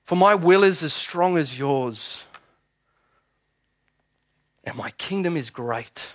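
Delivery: slow, solemn declaration; Jesus defiant. Acted. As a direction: speak it slowly as a victor. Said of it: "he said".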